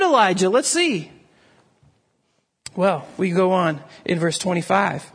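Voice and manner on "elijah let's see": eager crowd. Retold or imitated. People imagined agreeing eagerly.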